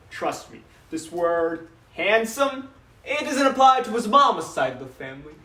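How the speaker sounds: lightly voiced doting papa reminiscing; a father fondly boasting about his son, then turning wistful; father's dramatic monologue; proud father.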